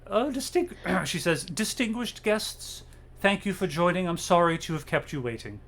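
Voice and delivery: a stately hostess's welcome; formal old matriarch. Acted.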